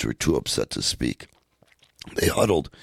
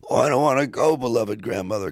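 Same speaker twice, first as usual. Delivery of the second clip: put-on wailing child; 8 semitones higher than usual. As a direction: cry out not wanting to leave. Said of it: "Kasumi wailed".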